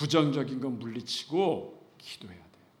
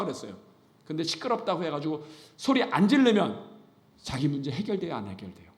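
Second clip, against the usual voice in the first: usual speaking voice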